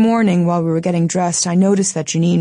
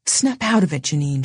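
rough, urgent order to a friend. Acted. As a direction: shake her out of it with your voice. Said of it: "she said roughly".

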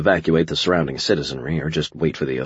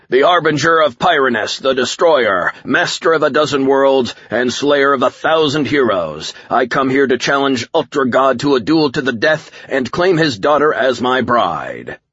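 raised, high-pitched villain proclamation, slowing on the big phrases; bellowing warlord; 7 semitones higher, 4 dB louder than usual. A narrator's reading. Alien warlord challenges Ultra God to a duel, bellowing. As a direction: declaim your titles like a conquering villain. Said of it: "the figure bellowed".

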